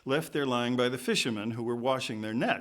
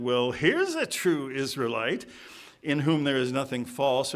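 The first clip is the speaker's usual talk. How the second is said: a little sarcasm. Acted. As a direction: draw out the compliment with a touch of irony. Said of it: "a little bit of sarcasm in here".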